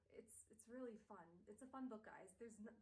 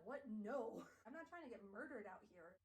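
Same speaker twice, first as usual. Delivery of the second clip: sudden loud no; alarmed refusal; 4 dB louder than usual. Acted. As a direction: recoil at the idea. Tessa refuses, laughing.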